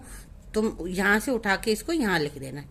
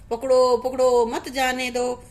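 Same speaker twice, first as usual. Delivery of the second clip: lightly acted parrot calling out, loud at first; parrot's cry; 4 dB louder than usual. Teacher quotes the parrot from the story, lightly acted cry. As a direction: imitate the parrot's alarm call. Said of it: "नहीं, वो तो कह रहा था".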